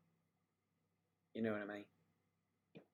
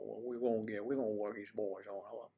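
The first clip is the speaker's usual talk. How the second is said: Gus Malzahn; 2 semitones lower, faster than usual. Retold or imitated. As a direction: mildly imitate the Auburn coach. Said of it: "He always talked like this".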